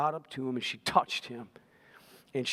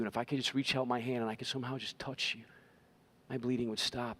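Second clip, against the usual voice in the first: lightly voiced, lower, softer and rushed confession; desperate woman confessing; 4 semitones lower, 4 dB quieter than usual. Preacher voicing the sick woman confessing to Jesus, hushed and hurried. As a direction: spill it all out quickly to Jesus, hushed. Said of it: "She has to say".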